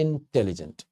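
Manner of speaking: इंटेलिजेंट with a small break after the first syllable; said in several beats. Shown as a demonstration. Teacher showing it takes several beats, इंटेलिजेंट said in parts. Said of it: "एक बार में नहीं कहने पाएंगे".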